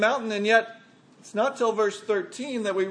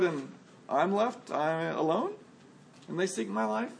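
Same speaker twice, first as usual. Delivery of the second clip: deflated complaint. Retold or imitated. Preacher voicing Elijah's weary lament to God, deflated and fading. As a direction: rush the grievance, then sink into I'm alone. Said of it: "lacked the same strong, righteous, self-righteous tone".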